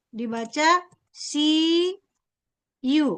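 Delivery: "siu" stretched very slowly, syllable by syllable; very slow demo. Shown as a demonstration. Teacher repeats the big-yu reading to the class, very slowly. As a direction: read "siu" out at a crawl, separated. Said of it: "dibaca shiu".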